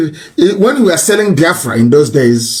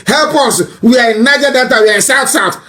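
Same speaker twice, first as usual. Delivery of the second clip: mock begging; 8 semitones higher than usual. Mocking the elder's letter as a beggar's plea. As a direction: ham up a pitiful beggar. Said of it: "You are begging now".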